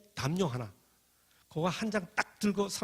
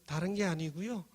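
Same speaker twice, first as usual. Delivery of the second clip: slow, louder mock-giggled punchline; laughing punchline; 5 semitones higher, 4 dB louder than usual. Girl mocking the freeloading student, giggling. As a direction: deliver it through a cackle. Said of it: "막 깔깔 웃으면서".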